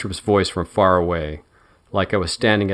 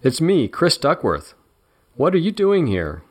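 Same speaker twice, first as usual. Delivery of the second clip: surprised camp friend; 8 semitones higher than usual. Acted. Duckworth surprised.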